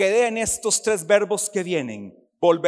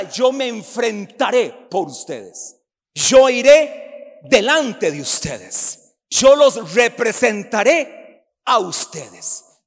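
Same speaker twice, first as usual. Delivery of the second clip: slow, louder solemn voice of God; God's promise; 2 semitones higher, 5 dB louder, slower than usual. Acted. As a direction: declare it slowly as God speaking. (voz solemne de Dios, lenta)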